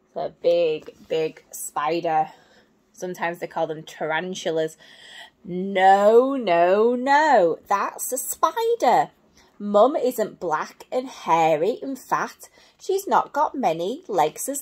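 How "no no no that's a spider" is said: monkey voice. Acted. Monkey corrects butterfly in book.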